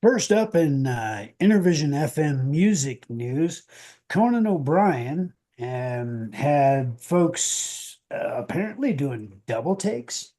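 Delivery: showy headline read with swooping pitch; announcer handing over to a co-host; radio news intro. Acted. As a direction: introduce the top story like a radio newscaster. Co-host reads the first headline.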